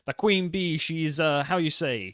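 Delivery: put-on a mafia boss hunting for an English word in a thick Italian accent. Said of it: "you gotta do an Italian accent".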